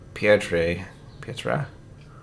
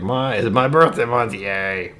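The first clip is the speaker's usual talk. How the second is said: mock birthday cheer; 3 semitones higher, slower than usual. Shown as a demonstration. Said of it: "It's like".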